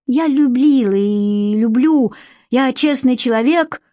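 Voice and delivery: slow, raising his voice. A narrator's reading. Andrey raising his voice at Emma, slow and firm. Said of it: "возвысил он голос".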